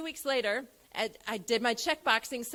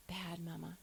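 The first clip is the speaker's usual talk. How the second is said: put-on small child answer; 7 semitones lower, 14 dB quieter than usual.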